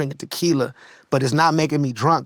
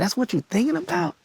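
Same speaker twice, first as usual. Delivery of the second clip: stunned question; 11 semitones higher, 3 dB quieter than usual. Retold or imitated. Son stunned by dying dad.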